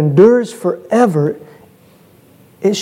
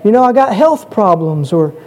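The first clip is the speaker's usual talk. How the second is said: higher-pitched voice of someone listing troubles; mock plea, pitched up; acted complaining; 5 semitones higher than usual. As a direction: pile up excuses as a troubled churchgoer. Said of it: "sometimes we're tempted to say".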